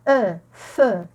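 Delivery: feu after its lone "eu" sound; EU pronounced as one vowel. Shown as a demonstration. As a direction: isolate "eu", then say feu. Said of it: "mais on prononce". (feu, avec le son « eu »)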